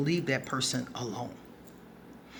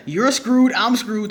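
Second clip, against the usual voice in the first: louder, higher, fresh from a laugh; amused, through laughter; 5 semitones higher, 7 dB louder, slower than usual. Real, not acted. Speaker warning about their temper, laughing. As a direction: say it while still cracking up.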